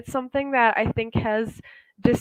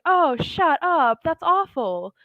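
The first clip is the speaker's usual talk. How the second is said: high, drawn-out reaction of disbelief; shocked disbelief; 7 semitones higher, slower than usual. Acted. Friend hearing of car accident, shocked disbelief. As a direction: react to terrible news, voice lifted. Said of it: "someone might be like".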